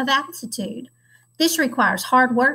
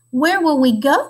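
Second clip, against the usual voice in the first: louder rising eager question; cygnets crying out; 3 semitones higher, 5 dB louder than usual. Acted. Cygnets cry out to their father, louder and eager. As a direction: ask like excited baby swans. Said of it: "cried all the cygnets".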